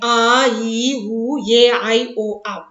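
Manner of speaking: आ, ई, उ, ए, आई, ओ, औ each lengthened; teacher listing long vowels again; long vowels demo. Shown as a demonstration. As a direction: hold each vowel for two counts. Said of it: "द्विमात्रिक या दीर्घ स्वर".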